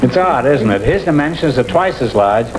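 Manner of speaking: ordinary talk, nothing marked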